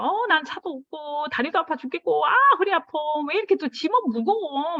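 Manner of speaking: high whiny moaning about aches; a hammed-up whine, pitch climbing; whiny complaining. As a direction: whine like you're worn out and sore. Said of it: "막 이러면".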